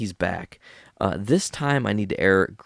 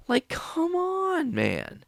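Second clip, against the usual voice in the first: exasperated whisper; much slower than usual. Acted. Exasperated rant climax.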